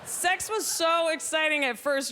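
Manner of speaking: ordinary talk, nothing marked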